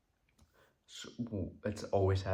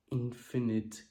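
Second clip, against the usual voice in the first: whispered; 3 semitones higher, slower than usual. Real, not acted. Lone whispered word.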